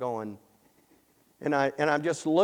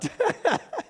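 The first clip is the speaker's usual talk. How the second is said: short high laugh. Real, not acted. Laugh after punchline.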